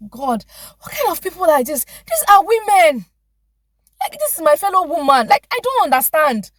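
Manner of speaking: rising exasperated disbelief, the middle slowed and loud; indignant outrage. Retold or imitated. Patient venting at the dentist, indignant and loud. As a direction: vent disgust at fellow women. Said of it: "I'm like".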